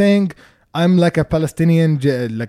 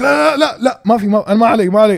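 retold dismissive refusal; 5 semitones higher, 4 dB louder, much faster than usual. Retold refusal of her pleading.

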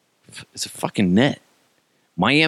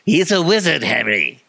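higher, put-on wizard-film voice; mock Harry Potter character; 5 semitones higher than usual. Film character talking to Harry, hammed-up and high. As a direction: ham up the Potter film line. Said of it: "this reminds me of Harry Potter".

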